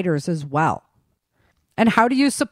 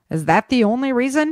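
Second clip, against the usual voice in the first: flirtatious; 6 semitones higher than usual. A narrator's reading. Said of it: "He wondered flirtatiously".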